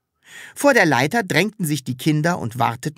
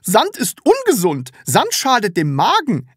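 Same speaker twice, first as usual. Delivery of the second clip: higher, louder stern mothers; mothers explaining; 8 semitones higher, 4 dB louder than usual. A narrator's reading. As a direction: lecture the child firmly. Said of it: "erklärten sie".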